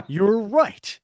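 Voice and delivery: high, laughing agreement; real amusement. Real, not acted. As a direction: crack up around the words. Cracks up at odd phrase.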